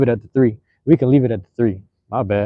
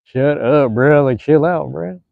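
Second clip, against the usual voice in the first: retold shut up; 4 semitones higher, 4 dB louder, much slower than usual. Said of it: "I was like".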